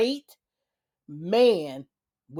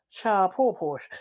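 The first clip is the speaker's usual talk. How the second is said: pitying whisper. Real, not acted. Pitying aside about Portia.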